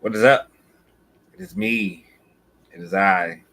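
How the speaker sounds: loud, grand bragging proclamation; boastful. Pretend. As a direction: boast like a wrestling champ. Self-hype entrance, loud grand boasts.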